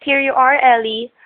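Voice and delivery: high, loud hello called from the doorway; gushing diner owner calling out; cheery greeting. Acted. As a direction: welcome them in brightly. Diner owner greets arriving customers.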